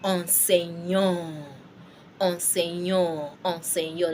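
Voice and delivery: enseignant slowly, opening on a nasal "on"; French pronunciation. Shown as a demonstration. Teacher modelling the word for teacher, French pronunciation. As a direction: enseignant drawn out as "on-sen-yon". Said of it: "It becomes on".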